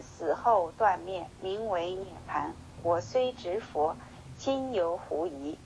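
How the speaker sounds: slow, measured scripture reading; slow sutra recitation. Acted. Teacher reading the sutra aloud to his listeners, slow solemn recitation. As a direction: intone each phrase of the sutra slowly.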